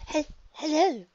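trembling, timid stammered greeting; scared stammer. Acted. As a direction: force it out through fear. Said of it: "afraid something would pop out".

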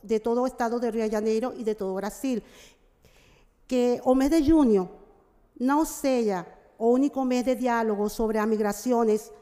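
Portuguese mixed with Spanish; portunhol. Real, not acted. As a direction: speak in Spanish-tinged portunhol. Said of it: "Eu vou falar um pouco em portunhol".

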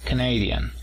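Canadian leaning on na; stress on the second syllable. Shown as a demonstration. Teacher models the nationality, stress on na. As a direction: lift the na in Canadian. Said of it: "a partir de la segunda sílaba".

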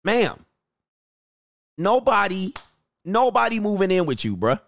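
a fed-up man dismissing a lady's hopes; exasperated. Retold or imitated. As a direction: tell her flatly nobody's coming. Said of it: "I'm like".

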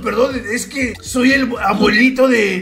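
lightly put-on grandpa voice; trolling as a frail old grandpa; very old man. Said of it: "haciendo la puta voz de viejo".

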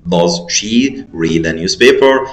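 "does she read a newspaper" slow and even; slow model answer. Shown as a demonstration. Teacher finishing the right answer for the pupils, slow. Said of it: "يبقى how often".

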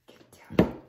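loud unvoiced get down; hissed loud command to the dog; sharp shout at dog. Real, not acted. Ordering dog loudly.

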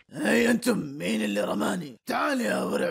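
calls out angrily at the crowd; angry shout. Acted. Angry man shouting at the crowd: furious shout. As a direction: demand who threw it, shouting.

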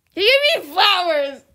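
shocked. Real, not acted. Streamer shocked the bodyguard gave her flowers. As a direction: blurt it in shock.

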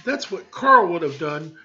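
high, loud, slow jab; needling wife. Acted. Wife taunts husband about Carl, high and loud. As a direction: twist the knife about her first husband.

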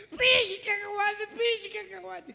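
high, slow wail of rage; strained comic fury, drawn out; frantic cursing. Acted. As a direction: curse the peanut in a squealing voice. Man cursing the stuck peanut.

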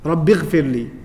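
"Rabbi" short, running straight into "ghfirli"; short final vowel. Shown as a demonstration. Teacher showing a plea for forgiveness, short vowel in Rabbi. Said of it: "Rabbi is short".

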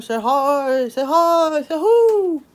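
coaxing pet. Real, not acted. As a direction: coax the cat, rising with every repeat. Coaxing cat to greet camera.

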